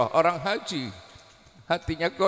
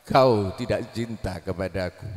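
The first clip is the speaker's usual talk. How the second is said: higher voice of the Prophet reproaching Bilal; lightly voiced sorrowful reproach, higher; gentle rebuke; 7 semitones higher, 4 dB louder than usual. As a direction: reproach him with longing, rising to a cry on gersang.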